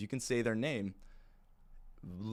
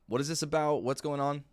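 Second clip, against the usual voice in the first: curious client; 5 semitones higher than usual. Retold or imitated. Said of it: "They might ask".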